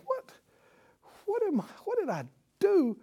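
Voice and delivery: high, fast, broken "what did I do"; anguished thought. Retold or imitated. Weeping Peter asking himself, high and fast. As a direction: panic at your own failure.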